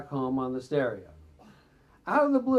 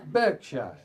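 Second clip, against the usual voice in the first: laughing retake; 6 semitones higher, slower than usual. Real, not acted.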